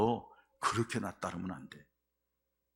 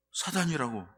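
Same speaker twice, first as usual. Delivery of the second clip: normal talking voice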